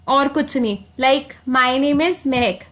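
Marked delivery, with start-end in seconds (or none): 1.5-2.6 slow demo line. Shown as a demonstration. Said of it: "Take a deep breath".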